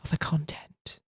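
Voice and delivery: breathy unvoiced whisper. Real, not acted. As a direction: whisper it as an aside. Whispered aside.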